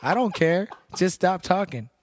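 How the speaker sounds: high, loud laughing exasperation; exasperated laughing outburst; laughing rant. Real, not acted. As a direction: blurt it out through laughter, fed up. Venting about drunk smokers, laughing.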